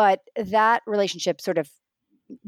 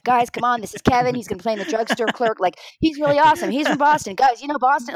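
raised, lively pitch, welcoming the newcomer; eager introduction; 4 semitones higher than usual. Retold or imitated. Actor hyping the guest star to the cast, eager and upbeat.

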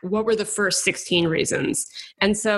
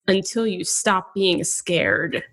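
mock dramatic; 3 semitones lower than usual. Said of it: "very dramatically, like he knows he's in a story".

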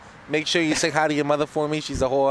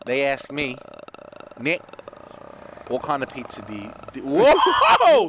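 put-on Boston accent. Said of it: "Boston Nick".

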